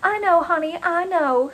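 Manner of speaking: syrupy soothing; consoling. A narrator's reading. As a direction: comfort a crying friend. Karen consoling the crying woman.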